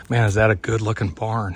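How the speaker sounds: out of breath; breathless from trailblazing. Real, not acted. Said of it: "Sorry, I'm out of breath".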